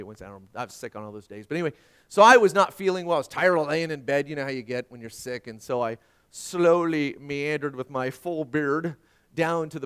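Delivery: ordinary delivery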